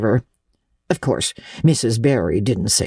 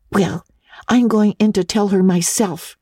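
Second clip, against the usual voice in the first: resolute; 7 semitones higher than usual. A narrator's reading. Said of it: "said Anne resolutely".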